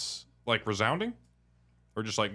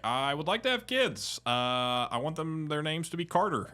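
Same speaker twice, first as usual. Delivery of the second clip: higher, slightly earnest husband voice; husband in a skit; 6 semitones higher than usual. Retold or imitated. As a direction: imitate a husband sharing baby names. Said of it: "'cause he's like".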